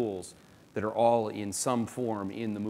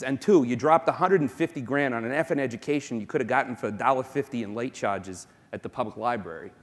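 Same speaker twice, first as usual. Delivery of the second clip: a self-mocking, admittedly terrible Boston accent; 3 dB louder than usual. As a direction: try a Boston accent, Matt Damon style. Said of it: "I'm gonna give you my best Boston accent here".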